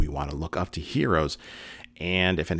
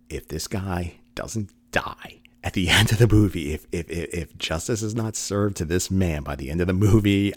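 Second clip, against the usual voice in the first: louder, worked-up mock outrage; retold exasperated vow; 3 semitones higher, 5 dB louder than usual. Telling his wife the villain had better die, mock outraged. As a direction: re-enact an emphatic, indignant vow. Vowing to wife during a film.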